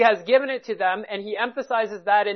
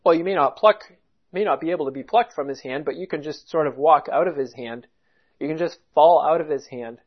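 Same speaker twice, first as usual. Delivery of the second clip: mocking the opposing view; 5 semitones lower than usual. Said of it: "professing Christianity say".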